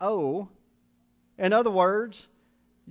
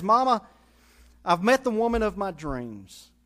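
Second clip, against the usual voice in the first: excited son; 4 dB louder than usual. Acted. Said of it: "he was excited about it".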